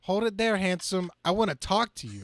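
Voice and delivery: calling out, cocky. Acted. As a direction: stop him with a cocky call. Hero calls out to racer.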